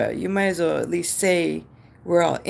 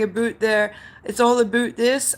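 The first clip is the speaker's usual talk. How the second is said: higher stereotyped Canadian, about as "a boot"; mock Canadian accent; 5 semitones higher, 3 dB louder than usual. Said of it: "I've never said".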